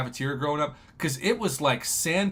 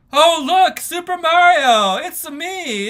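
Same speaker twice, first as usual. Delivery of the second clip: much higher, louder cartoon plumber voice; Mario impression; 11 semitones higher, 12 dB louder, slower than usual. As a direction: squeak it out like Mario. Mario catchphrase on Mario shirt.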